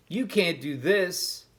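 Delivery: a mouse showing off to the cat. Acted. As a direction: dare the cat, show off. Stuart shows off.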